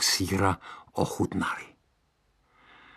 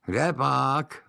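doubting witch; 6 semitones higher than usual. Acted.

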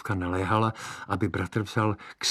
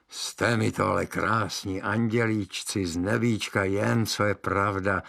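praising witch. Acted. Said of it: "pochvalovala si čarodějnice".

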